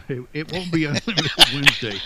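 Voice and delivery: laughing through the words; amused laughing. Real, not acted. Author answering the host's joke about a follow-up, amused laughing.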